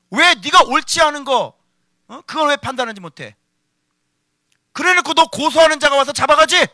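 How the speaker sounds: 힘주어 몰아붙이는 설교; 죄를 따져 묻듯 크게 꾸짖기; 꾸짖는 설교. Acted. 꾸짖으며 설교함. (호되게 꾸짖는 설교조)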